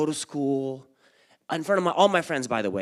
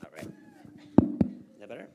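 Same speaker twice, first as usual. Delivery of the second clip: ordinary delivery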